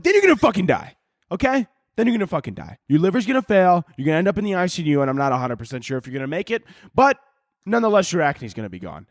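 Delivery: high, blunt doctor losing patience; doctor snapping. Pretend. Fed-up doctor blurts the risks at the nervous patient, high and blunt. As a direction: bark the bad news like you're done coaxing. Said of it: "I wish one doctor would just snap on me".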